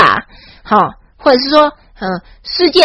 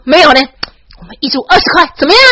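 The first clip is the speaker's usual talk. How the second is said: smug boast; 4 semitones higher, faster than usual. Retold or imitated. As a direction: show off your prices. Bragging at the tourists. (得意炫耀，语气嚣张)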